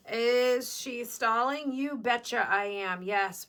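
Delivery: slow, lightly put-on Minnesota accent. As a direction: do a playful impression of a Minnesota friend, drawn out. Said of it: "that was my Minnesota friend".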